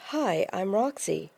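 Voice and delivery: lightly imitated German accent; a hint of a German accent, drawn out slowly. Tall German man introducing himself to Roxy, light German accent. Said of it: "in a German accent".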